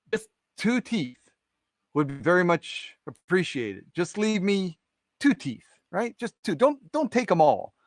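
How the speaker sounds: high-pitched, drawn-out begging as the mouse; pleading. Acted. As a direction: plead for a small mercy, voice lifted. Mouse begs to keep two teeth.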